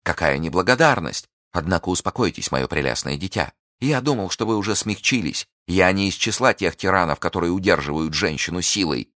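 lightly voiced sneering lord; mocking captor. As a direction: captor toying with his prisoner, mildly mocking. Captor mocks the prisoner.

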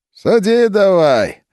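merry, slow, high call; cheerful. A narrator's reading. Fedka to Philip, cheerfully urging him to stamp. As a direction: slap it down like pouring a drink. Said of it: "весело сказал он".

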